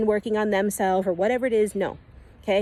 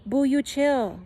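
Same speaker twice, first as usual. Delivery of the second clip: calm higher self. Pretend. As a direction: reassure a panicking friend gently. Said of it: "your God self ... is gonna be like".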